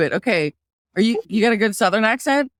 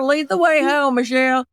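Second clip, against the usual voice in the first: put-on pitched-up Southern accent, calling on a singer; 3 semitones higher than usual. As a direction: play it up Southern. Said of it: "So I'll do Southern".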